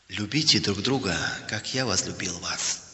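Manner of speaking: soft, low-pitched sacred verse; hushed, solemn quotation; solemn scripture reading. A narrator's reading. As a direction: read it quietly like holy words. Bible verse read from the wall.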